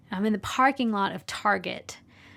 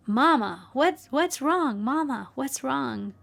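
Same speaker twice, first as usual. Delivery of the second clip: put-on high, drawn-out child's plea; worried child; 5 semitones higher, 3 dB louder, slower than usual. Daughter to her crying mother in the car, worried child. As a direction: imitate a small child calling to mama, slowly and higher.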